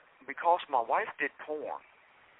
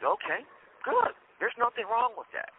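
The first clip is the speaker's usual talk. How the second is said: a much higher, slowed approving preacher; mock preacher voice; 10 semitones higher than usual. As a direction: lightly imitate the pastor. Retold preacher answering the woman.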